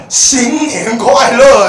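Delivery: slow, loud, drawn-out shy "新年快乐"; bashful confession. Retold or imitated. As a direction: blurt it like a brave love confession. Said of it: "要鼓起所有的勇气才能说". (鼓起勇气慢慢喊出“新年快乐”)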